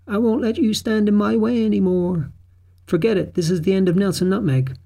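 high-pitched defiant threat; remembered confrontation. A narrator's reading.

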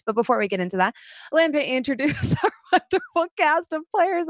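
rushed without pausing for air; all in one breath. Real, not acted. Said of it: "I tried to say that all in one breath".

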